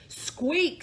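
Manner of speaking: squeaky mouse. Acted. Mouse's reply in story.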